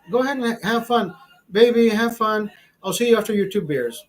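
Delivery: wife voice. Retold or imitated. Wife on phone, voiced sweetly.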